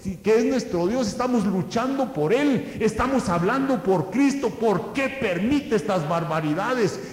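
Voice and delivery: persecuted Christians complaining to God, pleading; anguished questioning. Retold or imitated. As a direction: cry out to God in distress. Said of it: "principiaron a decir".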